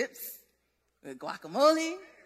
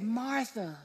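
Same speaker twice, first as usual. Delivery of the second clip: softer, gentle calling of her name; loving, compassionate; 4 semitones lower, 8 dB quieter than usual. Retold or imitated. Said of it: "he said it so lovingly and so full of compassion".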